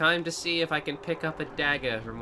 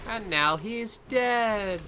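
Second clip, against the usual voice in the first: triumphant shout; 9 semitones higher, much slower than usual. Real, not acted. Triumphant kill in game.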